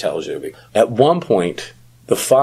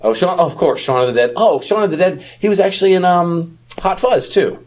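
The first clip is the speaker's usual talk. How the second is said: excited recognition; 10 semitones higher than usual. Real, not acted.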